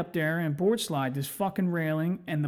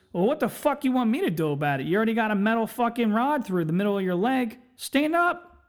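laughing doctor; 6 semitones higher than usual. Retold or imitated. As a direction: play the amused doctor telling him to stand up, pitched up. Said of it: "The doctor starts laughing his dick off and goes".

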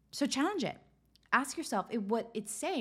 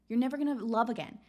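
lightly voiced nagging inner critic, quick; a hint of the mean voice in your head; harsh inner critic; faster than usual. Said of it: "your mind starts saying".

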